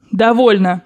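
firm cut-in; energetic interruption. Acted. Grandmother interrupting the young woman's account, energetic and firm. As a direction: cut her off decisively. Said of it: "энергически прервала бабушка".

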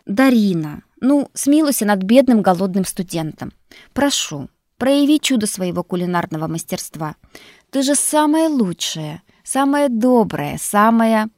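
cooing to the house spirit for food; cooing flattery. Acted. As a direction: coax her with honeyed praise. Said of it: "ласково проворковал".

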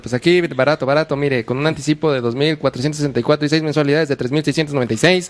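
rattling off prices like a street vendor; quick Mexico City market hawker patter; singsong market price calls. Retold or imitated. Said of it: "el marchante de, de Tepito".

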